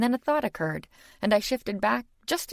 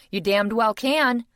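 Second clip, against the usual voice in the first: slow, louder, forceful insistence; exploded; 6 semitones higher, 5 dB louder than usual. A narrator's reading. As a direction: insist hard. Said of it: "I exploded".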